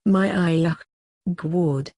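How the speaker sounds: a hammed-up fake Australian accent, crying out; mock Australian-accented cries of pleasure; grandma yelling out in a bad fake Australian accent. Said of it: "her best New Zealandic non-Nicole Kidmanish fake Australian accent".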